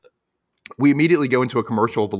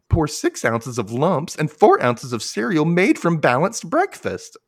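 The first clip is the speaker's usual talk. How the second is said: lightly voiced girl; 5 semitones higher than usual. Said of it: "she says".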